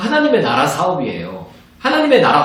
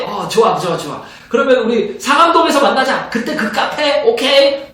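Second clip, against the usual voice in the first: cheerful phone chat; 6 semitones higher than usual. Acted. Pastor acts phone call with friend.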